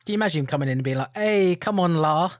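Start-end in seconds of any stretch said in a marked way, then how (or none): 1.1-2.3 mock Scouse accent. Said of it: "I don't know that much about Liverpudlian accents".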